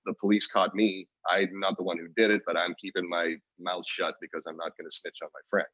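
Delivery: normal talking voice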